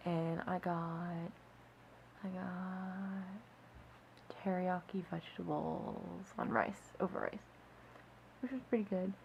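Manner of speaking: drowsy, drifting voice; half asleep, words sagging; nodding off. Real, not acted. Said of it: "I'm falling asleep".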